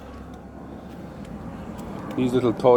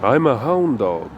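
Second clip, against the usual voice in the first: slow, drawn-out cartoon-dog line; slow mock cartoon voice for "I'm a hound dog"; cartoon dog quote; 3 dB louder, slower than usual. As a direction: lightly mimic a cartoon hound. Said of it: "he goes".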